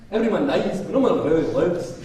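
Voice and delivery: put-on joking Scottish accent to amuse the audience; British accent. Speaker jokes to the crowd in a mock Scottish accent. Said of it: "I can do the British accent".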